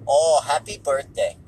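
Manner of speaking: put-on Wiseau-style accent, oblivious to sarcasm; Tommy Wiseau. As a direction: drag out the greeting in a mock accent. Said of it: "he's doing that whole shtick".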